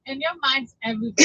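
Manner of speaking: laughing through the words. Real, not acted. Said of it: "are you on helium? ... laughing gas".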